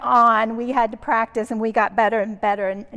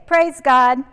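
louder call of Praise God; 4 semitones higher, 8 dB louder than usual. Retold or imitated. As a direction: proclaim it to the room. Children's nightly devotion call.

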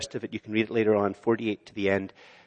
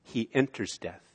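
hushed repetition; 7 dB quieter than usual. Shown as a demonstration. Repeated softer, slower.

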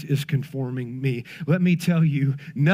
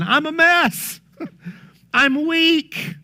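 laughing confession; 10 semitones higher, much slower than usual. Real, not acted. Preacher laughing to his faith family about his own weakness. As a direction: laugh it off, admitting you're a mess.

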